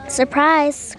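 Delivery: gleeful cry of surprise; cried out. Acted. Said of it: "cried the wolf".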